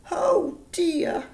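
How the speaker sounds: whispered, high and small; soft cry. Acted. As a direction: breathe it out like a worried little child. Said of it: "cried Baby Potato softly".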